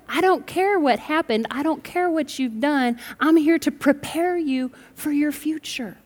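God's soft promise to the listener; tender reassurance. Retold or imitated. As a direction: soothe them like a parent. God voiced reassuring listener.

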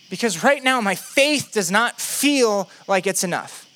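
doubting disciple making insistent demands; emphatic, mildly exasperated plea; Philip. Acted. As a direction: plead for proof, rising in pitch as you insist. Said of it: "Philip looks at Jesus and he says".

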